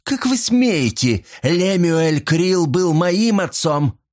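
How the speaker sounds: high, slow, indignant outburst; how dare you, pitched high and drawn out; outraged. A narrator's reading. Mot outraged that Silvia denies her father, high slow outburst.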